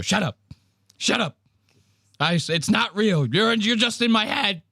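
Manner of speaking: high-pitched imitation of a tormented man; mock arguing with himself. Comedian answering the voice in his head, mock distress. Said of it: "And he has to go".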